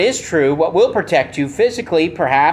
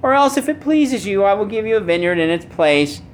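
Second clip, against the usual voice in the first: a hint of a whiny sulking king; 3 semitones higher than usual. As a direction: lightly whine it like a pouting king. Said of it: "imagine him saying in a whiny voice".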